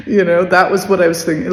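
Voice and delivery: quick words through a real laugh. Real, not acted. Laughing at her own stunned reaction, fast and amused. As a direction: laugh at yourself while saying it.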